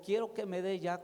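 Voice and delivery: exigencia retold con leve insistencia; insistente. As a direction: imitando a un ladrón que insiste, sin gritar. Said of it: "con una insistencia". (con insistencia moderada, como quien cita a otro)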